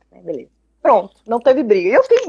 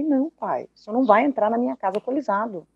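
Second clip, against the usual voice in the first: softer, gentle refusal so as not to hurt; 5 dB quieter than usual. Retold or imitated. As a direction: say no softly, tenderly, a bit quick. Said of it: "E um tom bem suave pra não magoar".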